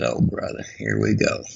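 whispered exasperated grumble under the breath; muttered aside. Retold or imitated. Husband griping to himself about his wife's sandwich fuss, whispered. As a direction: breathe it out so she can't hear, fed up.

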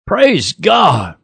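hammed-up churchgoer praise; mock congregation shout. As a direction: call it out like a pew regular.

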